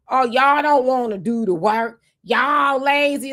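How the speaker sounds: sarcastic impression of critics calling people lazy; mocking sneer. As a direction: drag it out like a condescending lecture. Mocks the narrative that they are lazy.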